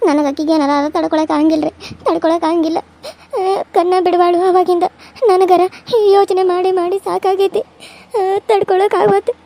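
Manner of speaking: crying as she confides her fear; tearful distress. Acted. Daughter tells the doctor she cannot bear it, tearful distress. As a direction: plead tearfully, barely coping.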